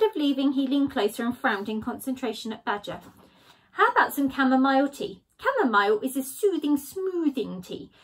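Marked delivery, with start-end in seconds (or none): 3.7-7.9 soothing Skunk. Acted. Skunk offering tea.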